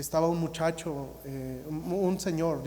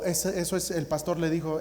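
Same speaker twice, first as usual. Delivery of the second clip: normal talking voice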